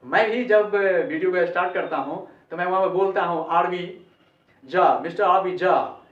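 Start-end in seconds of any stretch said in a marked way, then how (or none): 3.5-6.0 झा as plain "jaa", no aspiration; English-style name. Shown as a demonstration. Teacher quotes his video introduction, झा as unaspirated "jaa". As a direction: say आरवी झा with unbreathed j. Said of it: "ऐसे आरवी झा बोलता हूँ".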